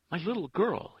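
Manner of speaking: high, loud, desperate gasp; gasping plea. A narrator's reading. Father begs the nun at the door, gasping. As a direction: gasp it out urgently. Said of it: "he gasped".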